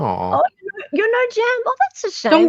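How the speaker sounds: mock disappointment. Mock-sad squeal at the guest.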